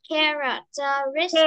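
"characteristic" with the stress moved to RIS; stress before the X. Shown as a demonstration. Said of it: "âm nhấn nó sẽ đứng trước chữ X lại".

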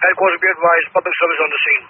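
firefighter over the radio; clipped radio call from a truck; urgent firefighter radio. Real, not acted. Units on radio.

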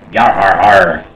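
hammy pirate yar har har; pirate laugh. Acted. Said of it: "Rate my pirate voice".

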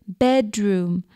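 Bedroom in two clear beats; syllable demonstration. Shown as a demonstration. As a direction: separate Bedroom into bed, room. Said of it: "how many syllables?".

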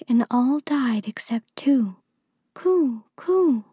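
high-pitched storybook bird voice; talking pigeons. A narrator's reading. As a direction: tell news as a high, cooing pigeon. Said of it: "said the pigeons".

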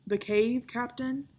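a lightly voiced startled protest; mild shocked pushback at the plan; balking in disbelief. A narrator's reading. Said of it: "Cheap Shot Charlie balked".

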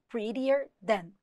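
drawn-out teaching repeat; slow repeat. Shown as a demonstration. Teacher to students, slow model reading. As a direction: say it slowly so students catch it. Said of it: "Então, ó".

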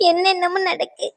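crying. Acted. Niece complains to her aunt, softly crying. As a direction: let the voice break into tears.

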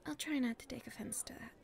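hushed and secretive, keeping it private; nervous confiding whisper; shy whisper. Acted. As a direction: whisper so nobody around can hear.

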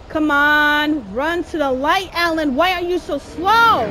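loud exasperated shouting at the screen; frustrated yelling. Real, not acted.

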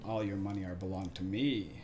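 gloating, hammy villain voice; sneering panto villain. Pretend. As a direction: gloat over the money like a cartoon crook. Banker gloats over the coin.

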